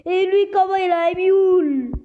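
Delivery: high, loud astonished cry; surprised. Real, not acted. Gamer shocked by another player's rare mule, loud high disbelief. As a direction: blurt it out in disbelief at the rare item.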